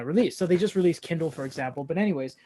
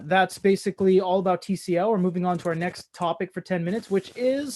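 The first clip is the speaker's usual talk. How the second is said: crackling mic noise over voice; crackly usb mic. Real, not acted. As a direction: speak through a crackling microphone. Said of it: "Your mic is crackling".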